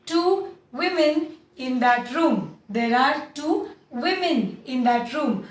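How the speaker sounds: two women said slowly with women as "wi-min"; slow model sentence. Shown as a demonstration. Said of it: "कैसे बोलोगे?".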